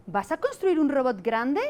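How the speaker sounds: slow, clear teacher modelling the right word order; teacher recasting the sentence. Retold or imitated. Teacher models correct phrase to boy, slow and clear. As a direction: spell out the correct sentence gently for the child. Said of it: "Y entonces yo le he dicho".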